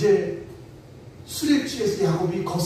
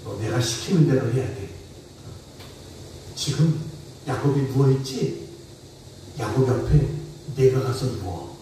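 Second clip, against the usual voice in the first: lower, commanding father voice; stern father giving orders; 7 semitones lower than usual. Retold or imitated. Father Laban ordering Leah to lie beside Jacob, low and commanding. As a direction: lay down the law to your daughter. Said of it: "라고 아버지가 시키는 겁니다".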